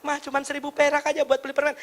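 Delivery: lightly voiced child wheedling for coins; pleading child. Child asks mum for candy money, lightly acted pleading.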